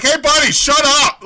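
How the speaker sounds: high, loud snap at a neighbour; mock annoyed shout. Moviegoer telling the booer off, mock shout. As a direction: shush the booer sharply. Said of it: "everyone would be like".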